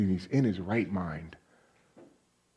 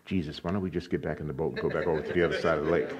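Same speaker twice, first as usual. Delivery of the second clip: nervous disciple; 4 semitones lower, faster than usual. Retold or imitated. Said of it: "but one disciple".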